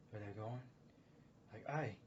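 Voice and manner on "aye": put-on northern British accent. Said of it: "a little more northern".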